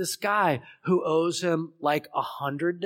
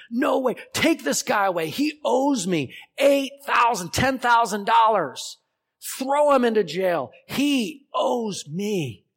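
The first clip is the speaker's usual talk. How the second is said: high, loud merciless yelling; a furious creditor demanding jail; angry shouting; 7 semitones higher, 6 dB louder than usual. Acted. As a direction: refuse him and shout for the guards. Servant refuses mercy.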